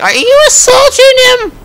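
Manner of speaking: very high, loud imitation of a shrieking wife; hammed-up falsetto screech of outrage; mock screaming. Wife joining in against the cop, mock scream. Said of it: "the kids are joining in too".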